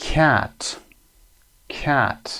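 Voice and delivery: "cat" with an open, front A; short A sound. Shown as a demonstration. Teacher gives the key word for the column, short A. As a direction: model "cat" slowly to show its vowel. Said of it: "ستون بعدی صدای ا هست".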